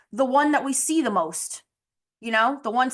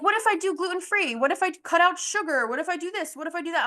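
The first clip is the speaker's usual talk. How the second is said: eager client; 7 semitones higher than usual. Retold or imitated. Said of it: "And she's like".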